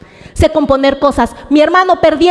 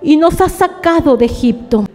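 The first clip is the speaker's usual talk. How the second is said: higher, reproachful reading of the Israelites; complaining people; 7 semitones higher than usual. Acted. Israelites reproaching Moses in the desert, higher complaining voice. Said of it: "Y dijeron a Moisés".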